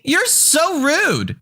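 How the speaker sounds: whining Karen. Acted. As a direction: drag out each word in mock offense. Karen indignant.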